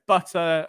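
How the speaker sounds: "Butter" ending in an open "ah"; own British pronunciation. Shown as a demonstration. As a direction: say "Butter" with no r at the end. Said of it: "I would say".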